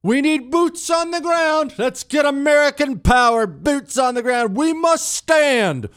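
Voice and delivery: high, pompous hawkish politician voice; mock politician. Talk host mocking Mitt Romney's war talk, high pompous voice. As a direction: ham up a war-hungry senator. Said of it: "a government full of Mitt Romneys".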